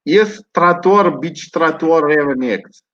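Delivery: put-on Russian accent. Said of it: "are you Russian?".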